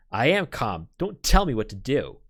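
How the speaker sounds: a father furious at being told to calm down; angry denial. Acted. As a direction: snap back at her, barely holding it. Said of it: "Please, calm".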